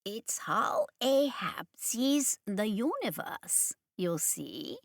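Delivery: soft, slow whisper; hushed voice. Acted. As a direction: whisper so the beings can't hear. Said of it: "he went on in a hushed voice".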